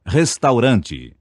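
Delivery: Restaurante slowly, every syllable full, final e sounded; vernacular pronunciation. Shown as a demonstration. Teacher models the correct word: slow, clear Restaurante. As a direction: spell out Restaurante the Brazilian way. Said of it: "A palavra é vernácula".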